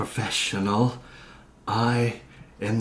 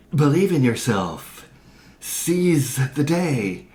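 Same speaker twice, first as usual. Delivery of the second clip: cheesy, louder motivational slogans; corny; 5 semitones higher, 4 dB louder than usual. Acted. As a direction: say it like a cheesy poster. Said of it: "in a less corny way than how I just said it".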